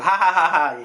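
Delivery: spelt-out mock laugh; acted-out cracking up; imitated laughter. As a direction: fake a hearty ha-ha. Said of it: "just crack up laughing".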